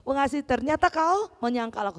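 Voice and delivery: fast, pushy teasing reproach; lightly hammed-up scolding in dialect; mock scolding. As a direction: jab at him for his broken promise. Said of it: "Tapi Yesus dengan penuh kasih".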